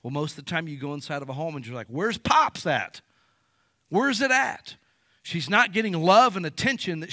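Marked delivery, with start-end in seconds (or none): 1.9-4.8 lightly voiced girl calling for her dad; a hint of a lost daughter asking where Pops is; searching girl. Girl asking about absent father.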